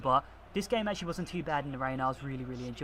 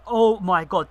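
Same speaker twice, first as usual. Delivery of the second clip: excited outburst; 3 semitones higher, 10 dB louder, slower than usual. Real, not acted. Marvelling at a through ball.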